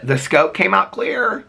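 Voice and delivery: high, slow, drawn-out happy report; retold excitement. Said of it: "She was all excited about that".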